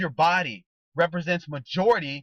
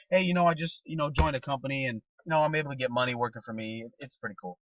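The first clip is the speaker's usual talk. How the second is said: lower, softer, trailing off into a mumble; unexcited pitch; 4 semitones lower, 3 dB quieter, faster than usual. Shown as a demonstration. Showing prospects the dull way to pitch, bored and fading. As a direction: sound bored and fade out to nothing. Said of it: "Guys, that's not exciting".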